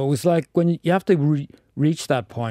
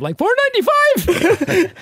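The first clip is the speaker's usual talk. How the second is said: broad Wexford accent, high and slow; 7 dB louder, slower than usual. Shown as a demonstration. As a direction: lay the Wexford accent on thick. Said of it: "it really speeds back".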